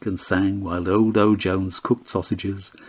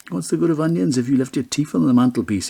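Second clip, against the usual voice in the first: put-on grumbling old man; 6 semitones higher, faster than usual. A narrator's reading. Old man grumbling about onions.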